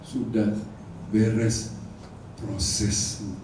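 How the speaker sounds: low, soft voice of God; a hushed divine voice. Retold or imitated. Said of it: "dibilang begini". (suara Tuhan yang rendah dan lembut)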